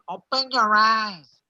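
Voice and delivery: slow, nasal, lightly imitated Spanish accent. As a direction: drag it out through the nose in a Spanish accent. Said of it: "a really nasally voice".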